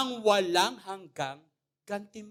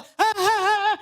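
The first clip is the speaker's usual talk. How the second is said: high, loud hammed-up cackle; mock mad laugh; 10 semitones higher, 5 dB louder than usual. Patient cackling in the mental ward. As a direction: laugh like a man gone mad. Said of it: "mamaya tatawa".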